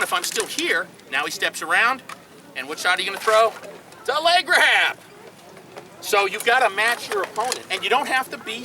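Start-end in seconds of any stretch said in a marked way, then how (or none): 4.0-5.0 excited. Real, not acted. Coach answers own question excitedly.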